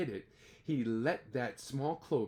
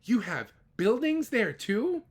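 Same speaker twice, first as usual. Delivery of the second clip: gasped; 6 semitones higher, 5 dB louder than usual. Acted. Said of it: "Horton gasped".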